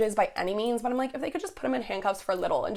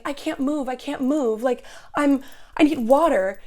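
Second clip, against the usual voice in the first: mild mock panic, pitched higher; Leo; 5 semitones higher, 4 dB louder than usual. Intruder having a breakdown near the door, mock panicked whining. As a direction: imitate a panicky plea, louder at the end. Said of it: "Leo starts shaking and being like".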